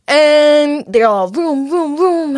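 slow, high vroom vroom; car noises. Retold or imitated. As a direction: imitate cars roaring by. Imitating cars driving past.

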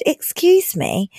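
slow, puzzled excuse me; confused. Retold or imitated. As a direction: drag it out in disbelief. Confused reply in the story.

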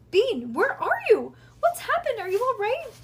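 high, loud frantic calling; frantic high-pitched yell; worried yelling. A narrator's reading. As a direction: yell in a panic for a missing child. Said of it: "Nancy was yelling too".

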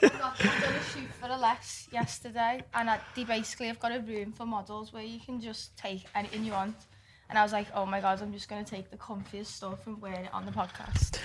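sheepish explanation, softly. Real, not acted. Laughing sheepish story.

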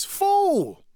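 high shouted Fool; yelling prisoner. Retold or imitated. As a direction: call out again from the cell. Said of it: "the fellow says".

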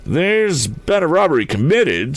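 quickly. A narrator's reading. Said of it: "spoke the constable quickly".

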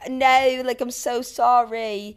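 imitated British or Australian apology; mock British-Australian accent.

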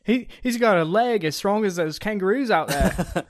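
loud, excited hype call; hype shout. Acted. Cohost loudly hyping the punter's strong leg. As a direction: boom it out like a stadium hype man.

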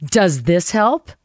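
slow, teasing question; joking. Retold or imitated. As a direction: draw it out as a jokey offer. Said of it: "I jokingly pulled it out and go".

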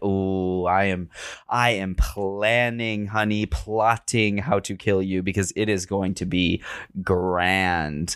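lightly voiced scheming killer, slow; a hint of gloating villain; butcher plotting. Butcher in Millie's body plotting, slow mock scheming. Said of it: "the butcher is just like".

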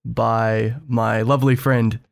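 hushed, measured golf commentator; golf announcer voice. Acted. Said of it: "this weird golf announcer voice".

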